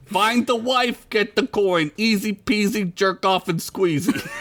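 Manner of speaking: put-on high-pitched Italian wiseguy accent. Joey summing up the easy job, Italian accent. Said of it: "I gotta do an Italian accent now".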